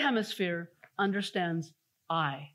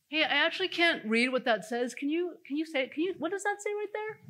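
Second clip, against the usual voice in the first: polite ask; 8 semitones higher than usual. Retold or imitated. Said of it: "She could have easily said".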